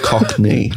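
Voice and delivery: "Cockney" said as cock, then knee; Cockney in two parts. Shown as a demonstration. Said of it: "Is it cock and then knee".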